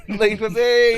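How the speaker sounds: loud, slow, drawn-out; slow shout. Pretend. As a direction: yell it out slowly. Card answer repeated, shouted slowly.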